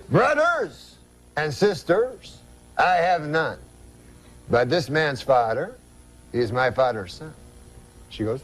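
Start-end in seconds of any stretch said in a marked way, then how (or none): 0.1-7.3 slow French-Canadian riddle, dramatic pauses; Jean-Luc's French-Canadian accent. Acted. Uncle poses riddle to wife, slow French-Canadian accent. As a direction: dole it out phrase by phrase in a French accent. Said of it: "That's how he talks".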